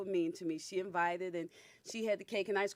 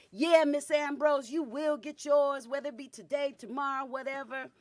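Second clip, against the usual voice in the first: taunting; 4 semitones higher than usual. Retold or imitated. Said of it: "she was all loud".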